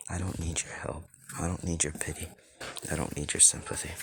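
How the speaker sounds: soft, withdrawn refusal; understated, closed-off character voice; subdued rejection. Acted. Character rejects the goddesses' pity.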